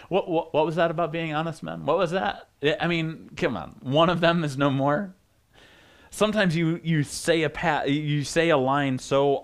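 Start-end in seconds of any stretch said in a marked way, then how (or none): 0.1-5.1 stammered, disbelieving challenge; incredulous questioning. Acted. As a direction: question it as if catching out a liar. Mock challenge to brothers' claim.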